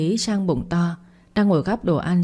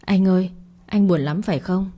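softly. Acted. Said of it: "nói nhẹ".

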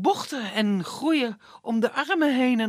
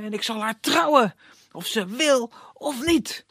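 angry prince; 4 semitones higher than usual. Acted. Prince raging at forest.

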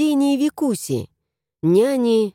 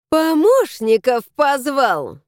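snort; 5 semitones higher, slower than usual. Acted. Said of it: "фыркнула она".

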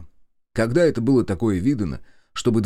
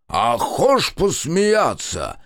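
long goal yell; 7 semitones higher, 4 dB louder, much slower than usual. Acted. Kondrat roars his phrase.

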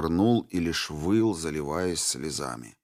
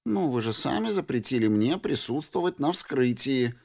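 coquettish offense; 6 semitones higher than usual. Acted. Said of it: "с кокетливой обидой заметила Ансельм".

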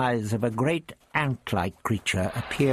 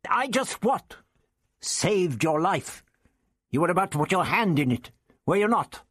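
put-on raised, testy old man voice; the Doctor lectures Ian, smug and raised; 8 semitones higher than usual. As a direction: play the prickly old Doctor. The doctor retorts.

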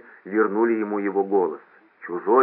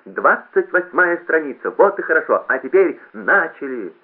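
high, loud, drawn-out emcee call; rally the hall slowly and loudly; shouted announcement; 7 semitones higher, 5 dB louder than usual. A narrator's reading. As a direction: loudspeaker starting a sing-along. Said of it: "выкрикнул громкоговоритель".

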